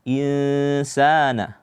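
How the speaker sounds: "Insana" slow, with the sa held just two beats; held hum on n, then measured sa in "Insana"; two-beat vowel. Shown as a demonstration. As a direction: recite "Insana" slowly, measured long aa. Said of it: "Cukup dua harkat saja".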